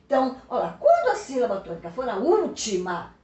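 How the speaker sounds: ordinary talk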